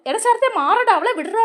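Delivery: pulling him off, shouting him away; retold shout. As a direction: bark at him to let her go. Pulling Sarath off her throat.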